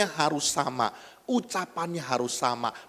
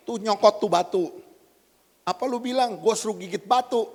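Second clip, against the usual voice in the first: higher-pitched, mildly offended retort; mock indignation; 7 semitones higher, faster than usual. Preacher acting a Javanese-Sundanese misunderstanding, mock indignant. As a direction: act out a quarrel, lightly indignant. Acted quarrel over misunderstood dialect word.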